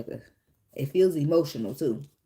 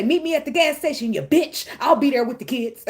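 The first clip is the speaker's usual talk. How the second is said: much higher, louder, laughing sarcastic invitation; hammed-up sweetness with a sting; mock polite co-parent line; 7 semitones higher, 4 dB louder than usual. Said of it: "I'm supposed to say".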